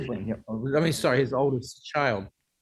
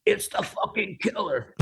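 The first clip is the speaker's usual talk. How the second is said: higher, slow, awed mock rock-singer voice; imitating a rock singer; 6 semitones higher than usual. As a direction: breathe it out like a starstruck rock singer. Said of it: "he whispered in my ear".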